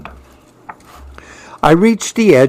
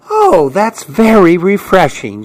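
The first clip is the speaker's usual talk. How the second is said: higher-pitched, pleased grandma; lightly hammed-up satisfaction; delighted savoring; 5 semitones higher than usual. A narrator's reading. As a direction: savor a pretend sip with delight. Grandma savoring a pretend drink.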